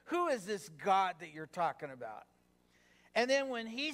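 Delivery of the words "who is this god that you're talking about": mildly scornful, "who" leaned on; disdainful. Acted. Pharaoh questioning the God they speak of, mildly disdainful. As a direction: dismiss him with a touch of disdain. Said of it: "can you see the disdain".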